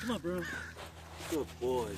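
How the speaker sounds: high-pitched dog-trainer coaxing. Real, not acted. Trainer enticing an apprehensive dog, high coaxing praise.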